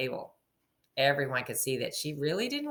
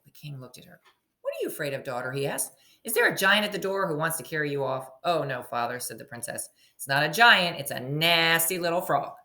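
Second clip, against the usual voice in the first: story narration. A narrator's reading. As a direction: read it like a picture book to a class. Teacher reading story aloud.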